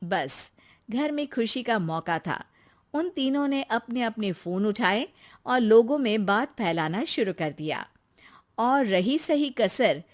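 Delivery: low storyteller voice, unhurried; story narration. A narrator's reading. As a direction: tell it like a family tale. Narrator describes scene.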